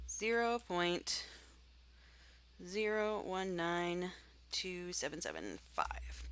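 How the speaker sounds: slow, deliberate number reading; slow dictation. Shown as a demonstration. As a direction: dictate each digit slowly. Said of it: "reading answer slowly to students".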